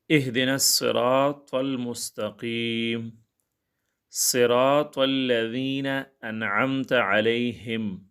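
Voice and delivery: very slow, drawn-out melodic recitation; Quran recitation. Acted. Teacher recites the Fatiha for his students, slow Quranic chant. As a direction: chant each word slowly like in prayer.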